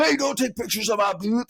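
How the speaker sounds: high-pitched mock outrage; indignant protest. Acted protest of booth owner.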